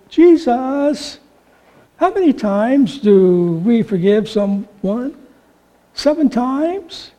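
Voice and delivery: slow, mock-pious whine; milk the question like a pious show-off; a hint of whiny holiness. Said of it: "in a very pious voice, a little whine to it".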